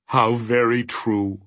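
slow, mournful character voice; understated sobbing, drawn out; mild acted sob. A narrator's reading. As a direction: lament it slowly, a touch tearful. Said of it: "he sobbed".

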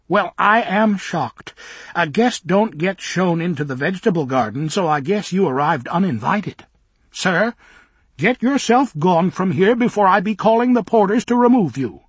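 high, loud scandalised nanny, slowed at the start; shocked old minder. Acted. Old minder ordering Bock out of the garden, high and loud. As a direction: huff and threaten the intruder.

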